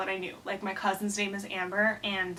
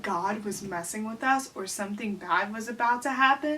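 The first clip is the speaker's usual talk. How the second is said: mock incredulous repeat; 3 dB quieter than usual. Repeats story line in disbelief.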